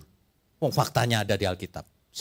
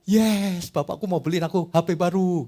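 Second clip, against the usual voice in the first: put-on higher, delighted kid's cheer; excited child; 4 semitones higher than usual. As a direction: cheer like a kid promised a phone.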